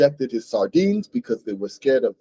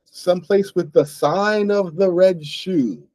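put-on formal old-world phrasing; 3 semitones higher, slower than usual. Shown as a demonstration. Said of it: "he said something like".

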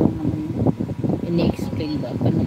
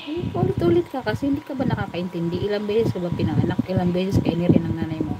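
retold scolding. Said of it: "Talagang naninigaw ako".

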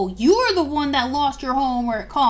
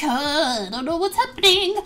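quick, rising-pitched confusion; bewildered; 2 semitones higher than usual. Acted. Multi confused by Layla's confession, bewildered. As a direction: blurt it out, utterly lost.

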